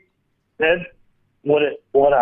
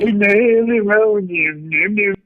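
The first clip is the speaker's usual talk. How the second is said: mocking parrot; 4 semitones higher than usual. Caller parrots the host.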